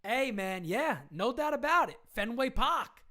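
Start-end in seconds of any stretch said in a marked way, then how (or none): 2.1-3.0 put-on light Boston accent, dropped r in Park. Teased by the guest into a Boston accent. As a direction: say Fenway Park as a Bostonian, Pahk. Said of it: "he got me doing the Boston accent".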